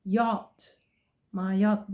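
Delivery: "yacht" with short British o. Shown as a demonstration. Teacher showing British pronunciation, British yacht. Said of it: "British way of saying my yacht".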